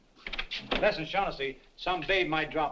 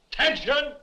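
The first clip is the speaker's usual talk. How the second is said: high, loud parade-ground yell; mimicked yell; 11 semitones higher, 7 dB louder than usual. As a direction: yell it like an overeager soldier calling the room up. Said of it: "some nitwit yells".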